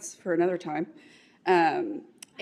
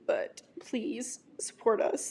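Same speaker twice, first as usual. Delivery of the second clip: teary; 3 dB quieter, slower than usual. Real, not acted. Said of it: "sorry, I'm teary".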